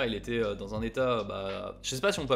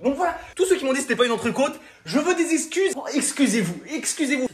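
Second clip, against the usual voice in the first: high, loud, hammed-up demand; mock outrage; 11 semitones higher, 7 dB louder than usual. Demanding apologies from the doubters, loud mock outrage. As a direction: shout for apologies, half laughing.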